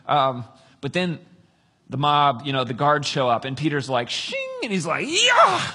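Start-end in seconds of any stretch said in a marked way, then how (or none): 4.1-4.4 sword-unsheathing noise; imitated sword draw. Peter draws his sword, ringing sound effect. 5.1-5.7 very high, loud attack cry; mock battle yell. Peter chops at the guard, mock battle yell.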